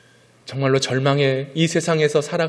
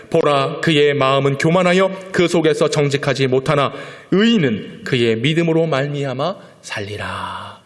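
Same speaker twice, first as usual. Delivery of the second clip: louder, solemn proclamation; scripture reading; 4 dB louder than usual. Real, not acted. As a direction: read it as holy promise.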